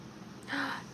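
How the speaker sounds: quick, soft intake of breath; gasp. Real, not acted. Streamer about to thank a viewer, soft gasp. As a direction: gasp softly before speaking.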